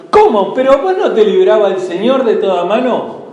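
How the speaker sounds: a touch of scornful surprise; mock the believer's faith; mocking disbelief. Former askers taunting the struggling believer, mild scornful surprise. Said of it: "esas mismas personas".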